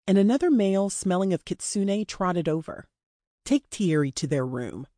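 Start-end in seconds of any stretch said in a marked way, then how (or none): 3.4-4.9 lightly voiced captor, lower pitch; low, understated command to an underling; captor giving orders. Dean gives an order.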